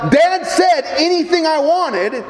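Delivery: put-on a kid shouting out his big discovery; excited child. Child eyeing the toy.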